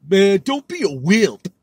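schoolyard taunt. Retold or imitated.

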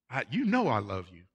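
mildly confident, with a lift on "know"; assured reply, leaning on "know". Acted. Peter answering Jesus who asked if he loves him, mildly confident. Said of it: "Kinda confident on this one".

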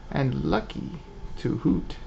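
put-on dainty old owl lady. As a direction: play a sweet old owl shopkeeper. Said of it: "Why does she talk like that?".

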